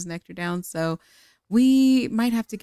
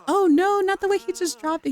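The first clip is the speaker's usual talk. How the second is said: amused dismay; 9 semitones higher than usual. Real, not acted. Gamer sees him drop the chocolate, amused dismay. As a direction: wail it in mock horror. Reacts to character dropping the food.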